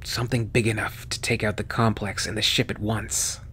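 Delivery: soft, worn-out voice; barely holding on, softly; weak. Acted. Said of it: "raised one hand weakly".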